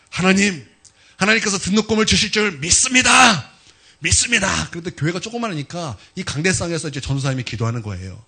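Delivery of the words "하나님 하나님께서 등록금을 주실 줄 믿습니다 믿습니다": acted-out prayer, raised and insistent; fervent prayer. Student pastor prays for tuition in church, fervent. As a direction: pray out loud with conviction, voice lifted. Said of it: "교회에서 기도하는 거예요".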